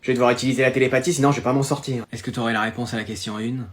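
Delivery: voix de pensée basse, très douce, rapide; pensée intérieure. Acted. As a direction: comme une télépathie chuchotée. Télépathie, pensée murmurée. (pensée télépathique murmurée)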